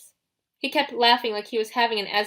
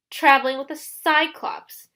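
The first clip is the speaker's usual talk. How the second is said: chided; 6 semitones higher, 6 dB louder than usual. A narrator's reading. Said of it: "Luke chided".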